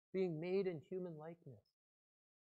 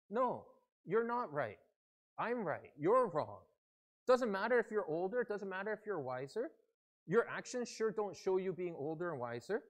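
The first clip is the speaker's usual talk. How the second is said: raised, insistent comeback; argumentative retort; 4 semitones higher, 5 dB louder than usual. Acted. Other side in a church argument answering back, argumentatively. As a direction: contradict them point by point, emphatically. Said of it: "the other person or the other side often says".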